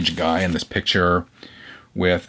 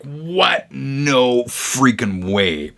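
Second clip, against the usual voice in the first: retold disbelief; 5 semitones higher, much slower than usual. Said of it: "I was like".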